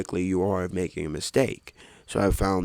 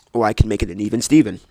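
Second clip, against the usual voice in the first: emphatic; 9 dB louder, faster than usual. Real, not acted. Loud choice between options.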